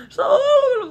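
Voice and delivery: playful high squeal on the repeat; high-pitched. Real, not acted. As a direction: squeeze it up high to show how little. Repeats it squeezed high for emphasis.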